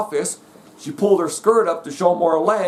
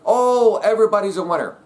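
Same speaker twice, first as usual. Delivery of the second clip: mocking parents; 4 semitones higher than usual. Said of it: "having all these kids brought up".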